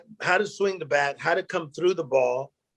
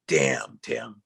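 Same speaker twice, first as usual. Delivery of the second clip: getting emotional. Retold or imitated. Dying friend's words to the man who stayed, emotional. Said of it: "I'm about to get emotional".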